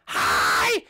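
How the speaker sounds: high, loud, very slow squealed greeting; screamy greeting. Acted. Jenny screams her greeting, told there is no need to. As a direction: shriek your name way too loud, stretched out. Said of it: "there's no need to scream".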